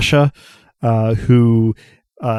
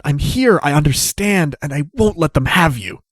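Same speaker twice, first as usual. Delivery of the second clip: earnest, pitched-up plea of a frayed lover; a desperate ex swearing protection; exclaiming Asha; 4 semitones higher than usual. Acted. A frayed former lover vowing to Romnet, raised and earnest.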